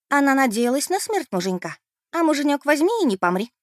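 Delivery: high, loud and gloating; gleeful accusation. Acted. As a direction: relish the scandal. (злорадно и громко)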